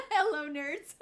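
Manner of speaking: loud giggly greeting to chat; laughing hello. Real, not acted. Streamer greeting her chat, laughing loudly. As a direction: laugh as you wave everyone in.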